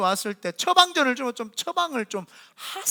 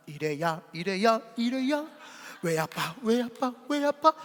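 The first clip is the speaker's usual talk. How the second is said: gentle calling; 3 dB quieter, slower than usual. Retold or imitated. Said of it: "이렇게 부르는 거예요".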